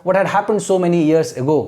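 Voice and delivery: very slow read with a rise on how; slow teacher demo; slow question reading. Shown as a demonstration. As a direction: read the question slowly for students to copy. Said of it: "सबसे पहले भी लिख सकते हैं".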